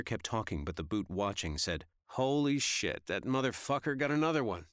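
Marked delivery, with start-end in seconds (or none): 2.1-4.7 excited exclamation. Acted. Guy excited at TV.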